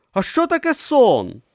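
high, wondering voice; puzzled novice. A narrator's reading. Brutha puzzled on the boat, high and wondering. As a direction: ask it high and innocent.

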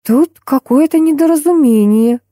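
slow and careful; slowly. Acted. Tanya slowly explains the mix-up to the old ladies. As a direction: spell it out slowly. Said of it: "медленно произнесла я".

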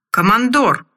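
put-on slurred drunken call; drunk slurring. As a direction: call out with a heavy drunken tongue. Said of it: "произнёс Егор заплетающимся языком".

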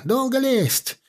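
displeased hiss. A narrator's reading. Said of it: "недовольно прошипел".

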